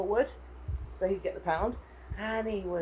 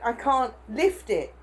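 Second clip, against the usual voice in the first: slow and louder, each word pushed; emphatic protest; 3 semitones higher, 5 dB louder, much slower than usual. Retold or imitated. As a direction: insist slowly that you can't. Retelling the porter argument.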